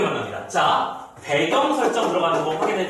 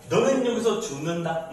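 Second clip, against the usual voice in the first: husky ghost voice. Acted. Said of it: "탁한 음성으로 다시 말합니다".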